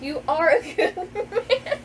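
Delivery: high, slow, dissolving into laughter; laughing through the line. Real, not acted. Author tries again to read the line, laughing. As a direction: barely get the words out for laughing. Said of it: "I can't even read this scene".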